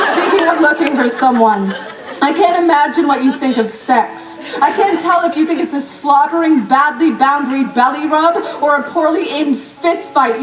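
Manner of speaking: heartfelt, comic poetry recital; spoken-word poem. Acted. Poet reads to Squash the dog, spoken-word delivery. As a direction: recite it as a rhythmic, driving love letter.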